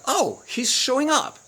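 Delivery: put-on high, slow, impressed girlfriend voice; a girlfriend pleasantly surprised; imitating his girlfriend. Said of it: "She goes like".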